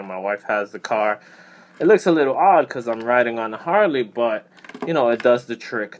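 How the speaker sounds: muffled through helmet chin bar; talking inside a full-face helmet. Real, not acted. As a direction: voice behind closed visor. Seen 4: Full-face helmet on, visor mostly down, chin bar covering mouth.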